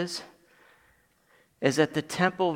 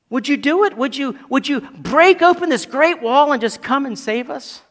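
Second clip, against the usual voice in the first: raised, higher-pitched pleading; crying out in prayer; 8 semitones higher, 7 dB louder than usual. Acted. Exiled Israel begging God to save them, pleading cry. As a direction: plead urgently upward, dropping off at the end. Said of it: "and they're crying out".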